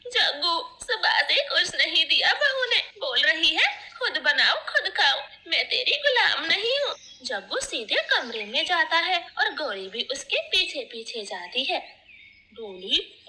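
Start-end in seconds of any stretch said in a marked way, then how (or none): 0.1-7.0 fake crying. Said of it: "जोर जोर से रोने लगती है".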